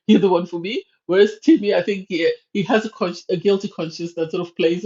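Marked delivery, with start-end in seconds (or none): 0.1-0.8 loud amused imitation; mock it with a laugh; laughing mock line. Mocking Jesse's line, laughing.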